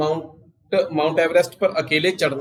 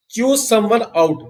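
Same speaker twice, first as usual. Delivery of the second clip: "chew someone out" said higher and slow, as a headline; announcing the phrase; 5 semitones higher, much slower than usual. Shown as a demonstration. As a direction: lift the voice to present the new phrase. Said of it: "teacher introduces the new phrase". (ऊँची आवाज़ में धीरे से पेश कीजिए)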